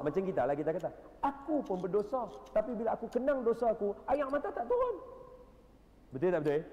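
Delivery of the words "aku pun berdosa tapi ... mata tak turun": higher and louder lament of a dry-eyed believer; mock lament. Preacher voicing the congregation admitting they cannot weep. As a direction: complain you can't cry for your sins.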